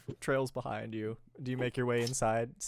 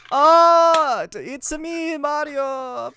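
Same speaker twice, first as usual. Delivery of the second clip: much higher, louder cartoon Mario; high-pitched Mario; 12 semitones higher, 12 dB louder, slower than usual. Introducing himself to ghost kids as Mario, high and loud. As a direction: announce yourself as a squeaky Mario. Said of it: "Do your worst Mario impression, but high pitched".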